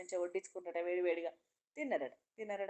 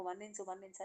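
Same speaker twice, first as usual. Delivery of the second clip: soft begging; 3 semitones lower, 6 dB quieter than usual. Acted. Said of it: "ఏడుస్తున్నాడు".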